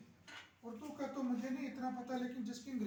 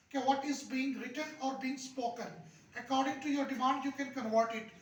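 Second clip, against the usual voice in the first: 1 slow, deliberate English; much slower than usual. Shown as a demonstration. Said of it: "slow explanation in English".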